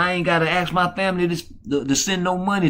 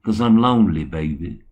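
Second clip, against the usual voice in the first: lonely lady's request; 7 semitones lower, 4 dB quieter than usual. Retold or imitated. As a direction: coo it like a lonely fan asking for a song. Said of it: "All you gotta do is say".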